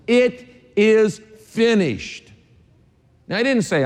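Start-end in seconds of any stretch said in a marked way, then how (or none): 0.0-2.3 very slow, higher and louder, solemn; Jesus's last words. Acted. Pastor voicing Jesus on the cross, slow solemn proclamation. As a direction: draw out each word like a dying proclamation. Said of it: "one of the last things he said was".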